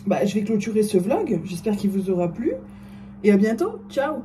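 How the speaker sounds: exaggerated sign-off with swooping rises at phrase ends; mock vlog sign-off. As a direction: parody a cheesy vlogger's goodbye. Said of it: "je le fais comme ça, quelle horreur".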